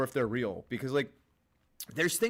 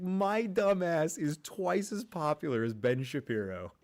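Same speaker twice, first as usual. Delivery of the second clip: dumb voice; 5 semitones higher than usual. Retold or imitated. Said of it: "I was like".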